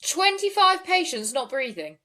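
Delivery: put-on incredulous call-handler voice; acted emergency operator. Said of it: "thank you very much for your acting skills".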